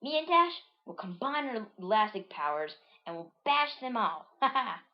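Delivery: high, boastful cartoon plan; eager character voice with a ha-ha; Bounce's voice. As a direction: pitch it up, end on a fake laugh. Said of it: "says Bounce".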